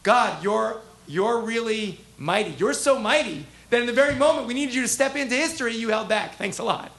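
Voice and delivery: dry, biting mock thanks to God; sarcastic, stretched-out you're really mighty; cutting sarcasm. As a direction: let the praise drip with bitter sarcasm. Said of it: "was saying it cuttingly".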